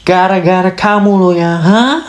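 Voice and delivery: pin it on them, challenging; mock accusation. Blaming someone as at fault, fast and accusing.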